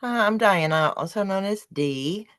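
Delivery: slight lisp from new teeth; lisping through new dentures. Real, not acted. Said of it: "sorry for the lisp".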